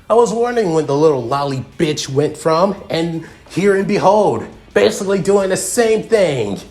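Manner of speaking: a hint of incredulous villain; lightly voiced ranting villain. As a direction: rant scornfully, pitching it up. Voices Freed ranting at Noctis.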